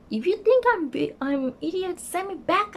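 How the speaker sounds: very high, upset mock wail; retold tearful outburst. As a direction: re-enact an upset, high-pitched demand. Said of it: "And I was crying".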